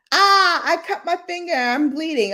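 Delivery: high, whiny fake cry; mock pain. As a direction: yelp as if hurt, hammed-up. Acts out a hurt person.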